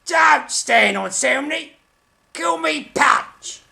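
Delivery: grand theatrical actor voice; lightly hammy stage delivery. Acted. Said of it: "That's my acting voice".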